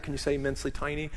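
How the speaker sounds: quick playful challenge to say immensely tiny; rapid tongue twister. Shown as a demonstration. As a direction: rattle off immensely tiny fast. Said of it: "Can you say that?".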